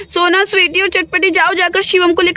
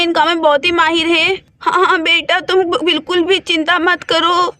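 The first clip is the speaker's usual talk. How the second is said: crying. Acted. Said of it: "रोना बंद करो".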